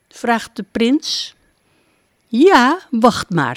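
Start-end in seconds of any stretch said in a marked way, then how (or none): 2.3-3.6 laughing. A narrator's reading. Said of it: "zegt Devi Melati lachend".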